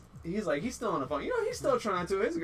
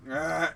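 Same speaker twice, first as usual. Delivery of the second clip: short imitated goose honk; mock goose cry; weird goose noise; 4 dB louder than usual. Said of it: "he does, like, this weird".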